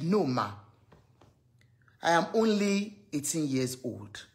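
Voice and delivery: lightly voiced scared girl, slow; a timid girl answering softly; soft, low girl's reply. A scared girl telling her auntie she is only eighteen, in a soft slow voice. Voicing the crying teenage girl.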